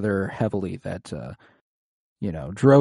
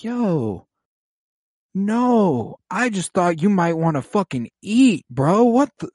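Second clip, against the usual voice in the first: mock baffled Doreah; 8 semitones higher, slower than usual. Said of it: "and she's like".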